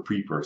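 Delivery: PREEPER as PREE-per; misspelling read literally. Retold or imitated. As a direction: read PREEPER with the typo's long EE. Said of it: "It actually says preeper".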